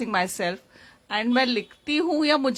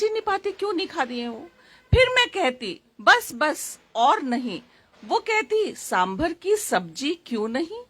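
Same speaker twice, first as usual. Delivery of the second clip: higher, swooping verse delivery of a remembered exchange; poem recitation; 4 semitones higher than usual. Acted. Poet voicing herself and mother at the table, poem recitation. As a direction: recite the dialogue as verse, pausing between phrases.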